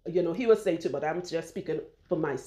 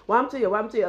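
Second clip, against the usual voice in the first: higher-pitched Trinidadian accent, imitating mother; mother's Trinidadian accent; 3 semitones higher, 4 dB louder, much faster than usual. Daughter imitating her mother asking about the hand, Trinidadian accent. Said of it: "she truly asked her".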